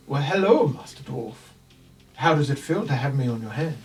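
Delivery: a lightly voiced, sly puppet. Puppet teases the dwarf wearing it. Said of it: "suddenly you hear this".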